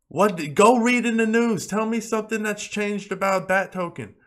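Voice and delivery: high-pitched, incredulous challenge to the doubters; exasperated rant. Real, not acted. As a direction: demand an answer, voice pushed up high. Challenging viewers who panic over price.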